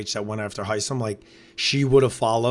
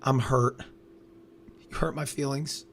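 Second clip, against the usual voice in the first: mock victim whine; 6 dB quieter than usual. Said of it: "play the victim role the whole time".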